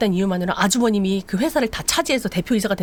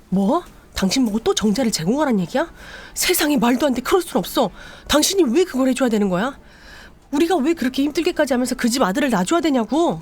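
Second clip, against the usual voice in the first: outraged wife; 5 semitones higher than usual. Retold or imitated. Wife to husband, outraged disbelief. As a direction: refuse it in disbelief.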